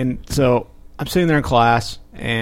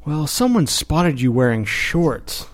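slow, drawn-out tattling official; mock HR reproach; 3 semitones higher, much slower than usual. Storyteller quotes HR's reply, slow mock reproach. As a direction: spell out the offence slowly as a mock HR officer.

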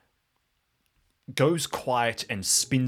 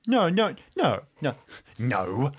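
high, loud quick denials; emphatic no; 5 semitones higher, 5 dB louder than usual. Real, not acted. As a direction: cut the idea off fast. Player denies Marvel reference.

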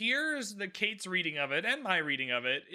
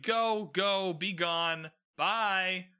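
dismissive shooing; much slower than usual. Retold or imitated. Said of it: "like, shooing away a puppy".

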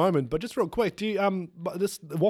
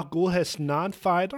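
fake Austrian; slower than usual. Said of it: "I actually know a little Austrian".

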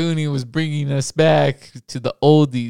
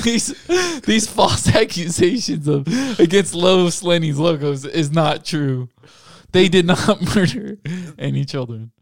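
news statement; 3 semitones higher than usual. Pretend. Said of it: "do news station".

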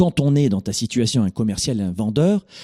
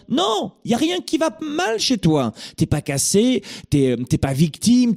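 much higher, slow soothing reassurance; reassuring; 10 semitones higher than usual. Acted. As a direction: tell them gently nothing is wrong with them. Coach answers the listener reassuringly.

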